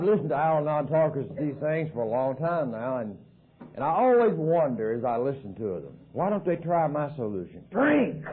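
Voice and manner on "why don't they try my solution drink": mock eager suggestion. Jokes about Al-Anon, alcoholic solution.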